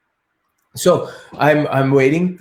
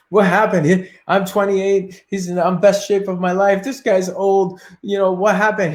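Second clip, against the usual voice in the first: baffled protest; 4 semitones higher than usual. Retold or imitated. Baffled after losing to old man.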